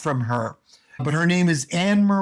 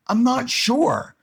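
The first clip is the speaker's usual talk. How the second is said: hesitant learner; 8 semitones higher, slower than usual. Pretend.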